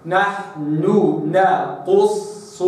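نحن نقص with the last noon held long before نقص; separate noons. Shown as a demonstration. Teacher separating noon from noon in recitation. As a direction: stretch the noon of نحن, then a fresh noon in نقص. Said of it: "هكذا".

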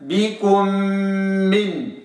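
بكم من with clear doubled m; correct take. Shown as a demonstration. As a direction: hold the m from بكم into من. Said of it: "وإنما".

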